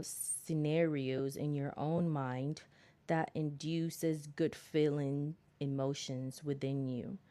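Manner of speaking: slow, deliberate book reading; reading aloud. Acted. Reading how to change your attraction, slow read-aloud. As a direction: draw out each phrase as you read.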